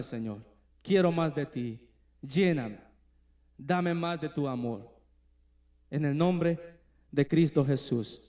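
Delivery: an earnest spoken prayer, softening toward the end; heartfelt prayer. Shown as a demonstration. Preacher to the congregation, modeling repentance: an earnest prayer. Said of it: "solo di".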